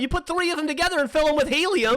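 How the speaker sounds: high-pitched yell of protest; exasperated shouting. Real, not acted. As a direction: shout it, exasperated at being misunderstood. Comic argument about balloon size.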